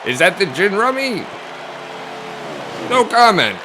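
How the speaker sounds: joking aside. Acted. Jokey aside about gin.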